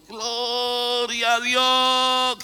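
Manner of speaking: long, slow, high drawn-out shout of praise; crowd shout. Retold or imitated. The people of Israel at the walls, slow loud shout. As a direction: stretch it out like a huge crowd crying to God. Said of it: "Y el pueblo gritó".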